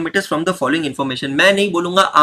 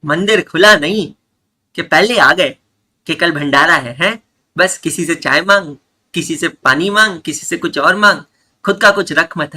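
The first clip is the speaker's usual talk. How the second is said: louder, teasing rant; mock scolding rant; 5 dB louder than usual. Teacher mocks a freeloading auntie for the class, loud and teasing. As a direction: rattle off the jibes at a freeloader.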